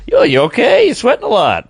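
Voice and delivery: high mock-concerned voice; concerned girlfriend. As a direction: imitate a worried girlfriend checking in. Imitating girlfriend's concern over sweating.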